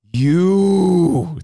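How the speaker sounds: bursting into anger; angry outburst. Retold or imitated. About to explode.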